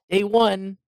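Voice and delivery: Mike Tyson impression. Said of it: "making up rhymes".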